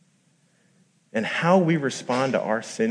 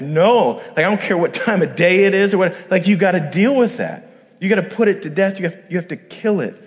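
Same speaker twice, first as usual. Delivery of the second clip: urgent; 8 semitones higher, 6 dB louder than usual. Retold or imitated. Urgent inner voice against sin.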